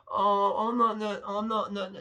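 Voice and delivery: imitating a self-pitying woman, whining; mock whining. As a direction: whimper out self-deprecating denials. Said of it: "Just whining".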